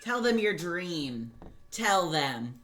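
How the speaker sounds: slow, loud and insistent nudge; loud urging. Real, not acted. Co-host loudly urging her friend to tell listeners the dream. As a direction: push your friend to spill it, loudly.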